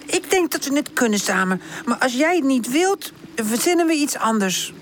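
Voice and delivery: lightly voiced caring older friend; slightly high, encouraging character voice; considerate Woezel. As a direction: offer support and a gentle way out.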